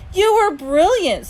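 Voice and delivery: high, loud and drawn out; slow, elated praise; gushing praise. A narrator's reading. Dad praising his daughter backstage, gushing.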